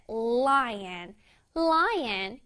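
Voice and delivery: "lion" with a confidently sounded L. Shown as a demonstration. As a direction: lean confidently into the L that opens "lion". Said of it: "L 부분을 아주 자신감 있게".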